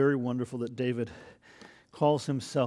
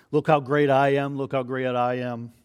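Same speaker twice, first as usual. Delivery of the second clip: boastful king; 6 dB louder than usual. Retold or imitated. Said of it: "the kings of that culture, that's all they would talk about".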